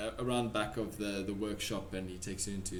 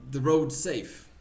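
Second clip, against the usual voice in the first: put-on higher, slipping Russian accent; 4 semitones higher, 6 dB louder, slower than usual. Pavlov asking about the roads, patchy Russian accent. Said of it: "I keep losing the accent".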